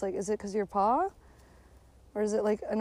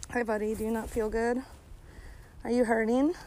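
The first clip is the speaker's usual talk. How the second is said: tender to dog; 5 dB quieter than usual. Real, not acted. Talking tenderly to her dog.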